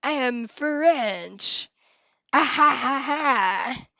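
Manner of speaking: hammed-up mock French accent, loud with laughs. Streamer hams up a French accent for chat, mock French. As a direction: play the silly Frenchman to tease chat. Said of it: "I basically did".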